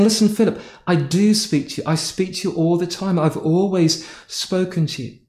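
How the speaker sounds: mildly softened, reassuring reply; gentle, quiet voice. Retold or imitated. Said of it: "very quietly, very gently".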